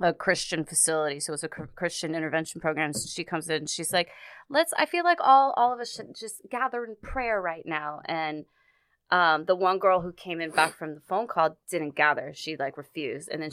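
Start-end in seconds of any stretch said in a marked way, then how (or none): 4.5-8.0 earnest supervisor. Retold or imitated. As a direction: play the eager supervisor rallying everyone to pray. Supervisor calls group to prayer.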